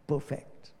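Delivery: whispered "Perfect"; whispered, awestruck "Perfect"; whispered awe. Acted. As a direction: breathe it out in wonder. Sea becomes like glass.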